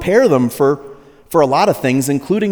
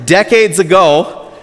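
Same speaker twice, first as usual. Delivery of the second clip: laughing; 4 semitones higher, 5 dB louder, slower than usual. Real, not acted. Laughing restart of sentence.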